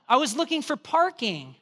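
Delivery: put-on a touch of impatience with the kid. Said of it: "I was more gentle".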